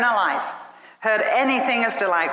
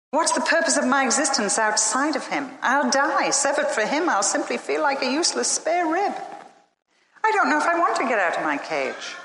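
anxious; 6 semitones higher than usual. Acted. Frightened rib pleads with God.

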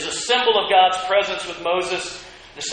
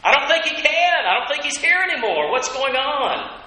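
higher, doubting grumble, slowing at the end; complaining doubters; 5 semitones higher than usual. Acted. Thirsty Israelites doubt God before Moses, higher complaining whine. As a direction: whine that God has left them. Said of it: "they're complaining and wondering".

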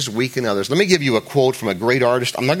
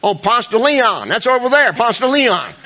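high, slow hammed-up Atlanta local; mock local drawl; 11 semitones higher, 5 dB louder than usual. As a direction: drag out "Ponce de Leon" as "Pants duh Lee-on", high and loud. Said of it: "They said".

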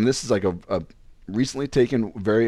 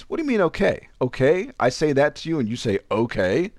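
put-on higher-pitched mad girlfriend quote; mock indignant; 4 semitones higher than usual. Girlfriend challenging his okay, mock indignant. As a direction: imitate her offended questioning, pitched up. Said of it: "then she gets mad".

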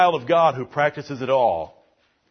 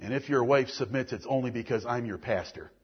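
much softer, lower, intimate sermon voice; quiet earnest preaching; 8 semitones lower, 10 dB quieter than usual. Real, not acted. Pastor quietly rebuking the men who hurt children. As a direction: lean in and press it softly.

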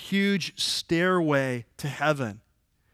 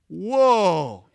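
stunned, drawn-out gasp of wonder; amazed whoa; 4 dB louder than usual. Retold or imitated. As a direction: let it knock you back, a hushed wow. Nathanael stunned by Jesus' knowledge.

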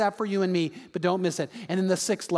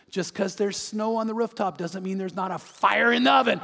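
put-on elderly woman. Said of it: "an elderly woman with all white hair".

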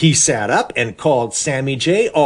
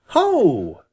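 cry of discovery; 6 semitones higher than usual. Acted. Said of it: "cried Farmer Brown's boy".

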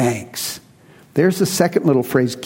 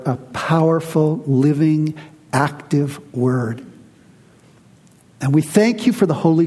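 measured, reverent prayer; 3 semitones lower than usual. Real, not acted. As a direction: lead the congregation in prayer, pausing between phrases. Leads the congregation in prayer.

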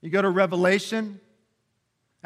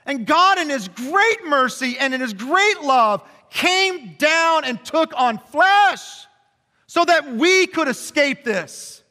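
preaching at full force; 9 semitones higher, 6 dB louder than usual. Real, not acted. Pastor preaching to the congregation about Jesus, fervent. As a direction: preach it with full force, slowing on key lines.

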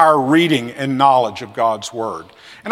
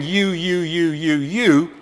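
turned to God; 3 semitones lower, 5 dB quieter, slower than usual. Retold or imitated. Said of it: "he's now saying".

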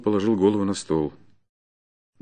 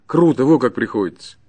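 higher-pitched, desperate begging; despairing plea; 5 semitones higher, 4 dB louder than usual. Acted. Starving peasant pleads with the forester for mercy, despairing. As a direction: plead for your release, swearing by God. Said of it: "повторял он с унылым отчаянием".

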